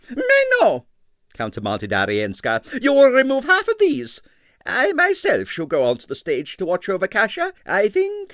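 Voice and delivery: high, loud imperious command; imperious ballerina. A narrator's reading. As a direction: overrule him grandly. Arienskaya countermands.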